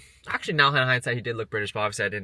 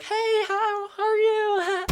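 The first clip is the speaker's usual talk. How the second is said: very high, drawn-out mock-friendly hello; over-nice greeting; 4 dB louder, much slower than usual. Tenant imitates herself greeting the staring neighbor, sugary and high. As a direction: squeal an exaggerated sweet greeting.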